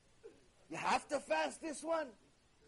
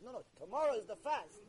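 ordinary talk, nothing marked

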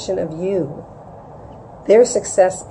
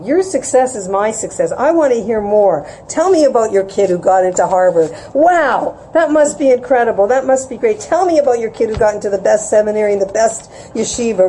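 pretend enthusiasm; 3 semitones higher than usual. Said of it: "pretend even that this is just fantastic".

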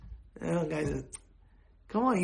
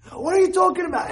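loud, high furious yell; angry shout; 11 semitones higher, 5 dB louder than usual. Acted. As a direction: blast the offender in full rage. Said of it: "you see the guy so angry".

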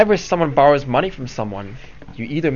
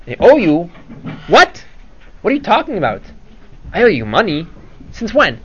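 feigned surprise; 4 semitones higher than usual. Acted. Rashid feigns innocence.

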